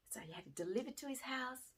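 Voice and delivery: confiding whisper. Real, not acted. Teacher revealing the student's secret plan, whispered. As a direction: let them in on the secret.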